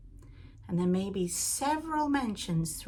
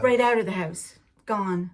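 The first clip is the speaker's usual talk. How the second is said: emphatic echo; 7 dB louder than usual. Real, not acted. Echoing husband, emphatic.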